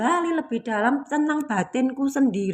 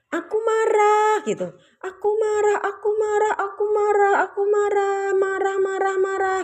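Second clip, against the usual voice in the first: voice of pent-up anger; 10 semitones higher than usual. Acted. Speaker voicing blocked anger energy inside the body, high wailing chant. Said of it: "bahasanya ngomong gini".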